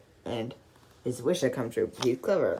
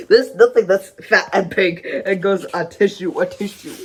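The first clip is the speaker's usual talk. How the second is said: worried denial; 4 semitones higher, 7 dB louder than usual. Acted. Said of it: "looking worried".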